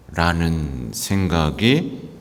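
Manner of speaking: ordinary talk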